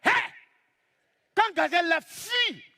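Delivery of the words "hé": sharp call of Hé!; hunting call. Shown as a demonstration. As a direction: yell Hé! to startle the gazelle. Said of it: "je fais ça". (cri Hé! pour lever la gazelle)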